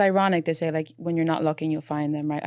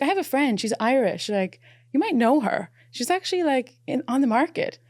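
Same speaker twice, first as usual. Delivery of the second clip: high, bright mock voice of a matchmaking friend; meddling girlfriend; 7 semitones higher, 4 dB louder than usual. Imitating her friend matchmaking at dinner, high mock voice. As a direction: pitch it up like a friend playing matchmaker.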